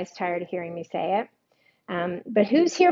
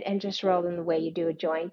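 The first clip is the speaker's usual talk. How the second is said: mock joke; 4 semitones lower, 4 dB quieter than usual. Shown as a demonstration. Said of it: "I should have said".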